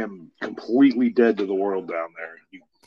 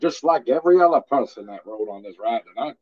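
mock indignant customer; 6 semitones higher than usual. Co-host mimics protest, laughing.

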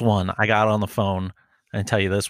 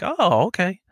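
mock naive; 5 semitones higher than usual. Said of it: "I'm like".

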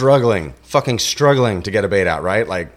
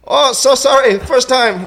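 high-pitched, apologetic imitation of an Asian accent; loud, squeaky put-on Asian accent; mock Asian accent; 5 dB louder, slower than usual. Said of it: "he's got an accent".

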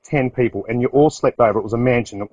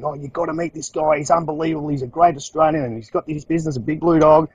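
lightly voiced, higher gushing praise; enthusiastic recommendation; 4 semitones higher than usual. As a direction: sell him to Kevin with a grin. Friend raves about him to Kevin.

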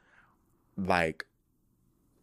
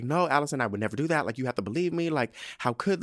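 mild mock pleading; Rhaenyra; 4 semitones higher, faster than usual. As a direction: imitate someone half-heartedly pleading her case. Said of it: "kinda, like, pleading her case".

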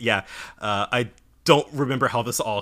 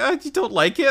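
put-on high cute girl voice; 14 semitones higher than usual. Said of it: "where she's just like".

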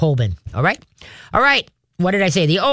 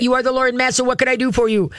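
high, worshipful dog voice; submissive dog; 7 semitones higher, faster than usual. Acted. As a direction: voice a dog offering itself to its master.

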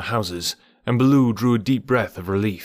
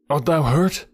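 concerned bear; 6 semitones higher than usual. A narrator's reading. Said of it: "hugging him softly".

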